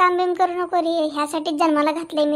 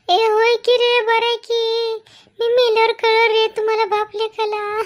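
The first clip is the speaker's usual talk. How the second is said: sarcastic self-pity; 5 semitones higher than usual. Acted. Mother's sarcastic self-pity rant.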